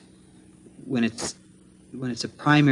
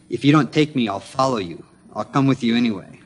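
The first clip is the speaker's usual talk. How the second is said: retelling a firm vow with mild force; imposing; 4 dB louder than usual. Retold or imitated. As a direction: imitate a strong, imposing man, lightly. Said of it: "said in a very imposing way".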